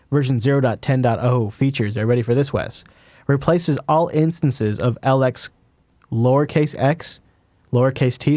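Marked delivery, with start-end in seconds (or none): 3.3-8.4 slow, careful spelling of each letter; slowly spelling out a name. Shown as a demonstration. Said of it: "so it's L, lowercase x".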